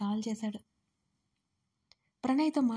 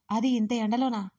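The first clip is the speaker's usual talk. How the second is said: angry shout; 4 dB louder than usual. Acted. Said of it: "Arjun గట్టిగా అరిచాడు".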